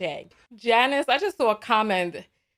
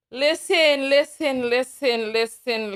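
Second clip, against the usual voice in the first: a louder, emphatic "listen," to grab the chat; insistent call to listen; 3 semitones higher, 4 dB louder, slower than usual. Real, not acted. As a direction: call out "listen," firmly to get attention. Calling the audience to attention.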